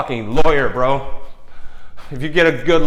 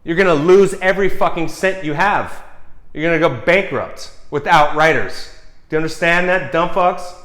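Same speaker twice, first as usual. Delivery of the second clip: angry rant at executives; 4 semitones higher than usual. Acted. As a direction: yell at them like they're in the room. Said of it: "I'm talking to them, not you guys".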